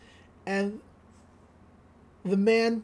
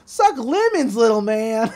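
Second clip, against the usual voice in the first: louder, smug mock-official reading; cocky reading; 3 semitones higher, 4 dB louder than usual. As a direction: read it out with a sneer. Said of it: "He's like".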